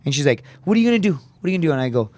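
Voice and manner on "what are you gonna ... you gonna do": high-pitched mock mom questioning; challenging mom. Mom grilling her son about his future, challenging. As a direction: press the question like a doubting mother.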